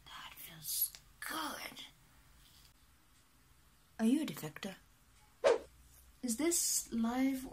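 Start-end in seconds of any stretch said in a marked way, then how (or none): 0.0-1.8 soft moaning. Acted. Massage, ouch, feels good.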